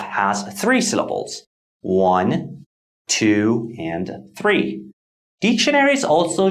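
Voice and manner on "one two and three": counting out. Shown as a demonstration. Teacher counts syllables one by one.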